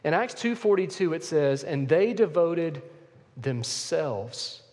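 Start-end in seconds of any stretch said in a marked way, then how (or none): 1.6-4.6 slow into "devoted", pause, land "themselves" deliberately; stress on themselves. Shown as a demonstration. Preacher showing the church the key word, emphasizing "themselves". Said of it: "I wanna emphasize another word".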